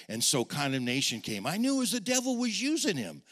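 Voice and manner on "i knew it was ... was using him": pleading prayer. Retold or imitated.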